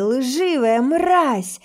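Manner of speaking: slow hateful shout. Acted. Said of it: "он продолжает орать".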